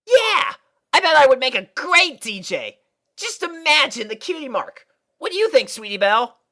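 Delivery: high, loud eager filly; Scootaloo voice. A narrator's reading. Tomboy filly pitching her DJ dream to her friend, eager. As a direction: brag about being a DJ.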